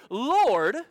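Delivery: slow, hammed-up pious complaint; mock Christianese lament. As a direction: overplay the martyr, stretching every key word. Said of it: "Has there ever been a more Christianese sentence in your life?".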